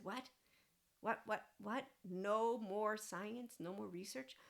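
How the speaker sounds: rising, disbelieving questions; mock incredulity. Reacting to someone claiming there's no field, mock incredulity.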